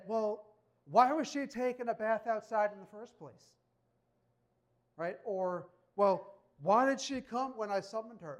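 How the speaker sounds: hammed-up defensive king dodging blame; mock excuses. David imagined shifting blame onto others, hammed-up whiny excuses.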